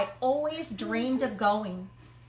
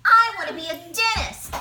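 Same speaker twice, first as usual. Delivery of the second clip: put-on high, loud child's eager shout; excited shout; 8 semitones higher, 7 dB louder than usual. Amy calling out to the magician, loud and eager. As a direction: call it out like an eager kid. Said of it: "Amy shouted".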